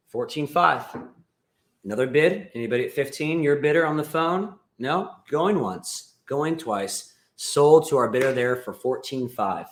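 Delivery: lightly voiced auctioneer calling bids. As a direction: call it like a mild auctioneer.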